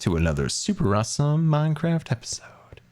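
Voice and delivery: big showy welcome; hammed-up catchphrase; old show intro. Shown as a demonstration. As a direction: sweep up through the episode welcome. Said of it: "what I used to do".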